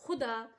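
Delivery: खुदा, guttural kh sound like clearing the throat; throaty kh. Shown as a demonstration. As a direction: scrape the ख of खुदा from the throat, like Urdu x. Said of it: "तो ये अंदर हलक से आवाज़ आएगी".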